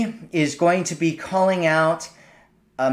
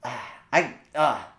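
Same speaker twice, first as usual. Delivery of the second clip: mock dismay. Shown as a demonstration. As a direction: tease him, as if his tea is a dealbreaker. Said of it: "you're just playing with him".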